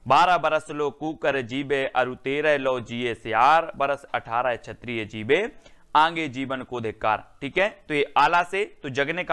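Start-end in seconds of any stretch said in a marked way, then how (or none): 0.1-7.4 recited verse. Shown as a demonstration. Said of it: "और".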